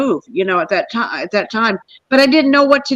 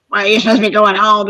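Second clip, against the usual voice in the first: nagging husband; faster than usual. Retold or imitated. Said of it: "he interrupts like the devil".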